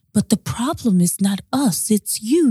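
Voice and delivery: slow, measured mock-calm partner; imitated calm. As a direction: imitate him calmly laying out the problem. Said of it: "He's so calm".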